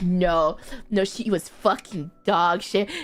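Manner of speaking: low, dismissive friend's voice; retold blunt verdict, pitched low; deadpan dismissal. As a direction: drop the pitch and write her off. Voicing friend's dismissive answer.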